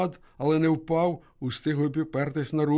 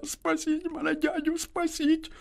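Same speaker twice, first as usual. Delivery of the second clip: put-on high, tearful little girl's voice, slow; small girl pleading through tears; thin crying girl's plea. A narrator's reading. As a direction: beg for help like a frightened child. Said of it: "тоненько заплакала і зашепотіла".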